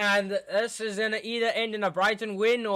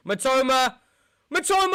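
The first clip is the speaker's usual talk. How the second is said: high, loud, urgent yells of the name; excited yelling; 7 semitones higher, 4 dB louder than usual. Real, not acted. Fan screaming at the screen during a chance. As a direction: shout the name as the ball flies in.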